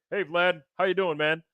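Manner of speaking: high, put-on voice of a friend, friendly then incredulous; hammed-up friend, cheerful turning indignant; imitating Andrew. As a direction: play him casual, then flare up in disbelief. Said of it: "Andrew popped his head in".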